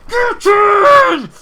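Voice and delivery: huge, high-pitched roar; celebratory goal shout. Real, not acted. Gamer yelling as Arter scores in the final, celebratory shout. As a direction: belt it out in real jubilation.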